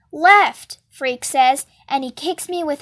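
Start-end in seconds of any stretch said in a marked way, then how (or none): 0.1-0.8 loud, firm falling order; urgent command. A narrator's reading. Freak steering his friend away from the gang, urging. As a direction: call out the direction sharply. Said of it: "he's urging me on".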